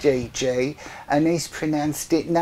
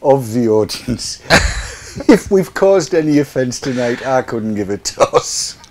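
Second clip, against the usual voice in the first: mock formal announcer. Mock formal address to audience.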